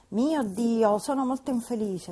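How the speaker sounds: a hammed-up young woman's anguish; unhappy exclamation. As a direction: lament it, young lady in distress. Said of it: "esclamò alla fine".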